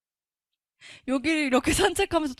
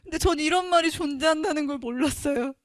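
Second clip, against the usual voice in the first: real crying. Real, not acted. Giving testimony to the church, crying openly. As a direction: voice breaking into a tearful cry.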